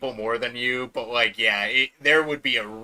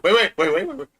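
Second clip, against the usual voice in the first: excited; 7 semitones higher, 6 dB louder, faster than usual. Real, not acted. Excited interruption.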